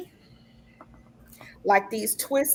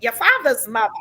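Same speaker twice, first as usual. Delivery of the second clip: put-on Boston accent; 5 dB louder, faster than usual. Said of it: "you know how she talks in that Boston accent".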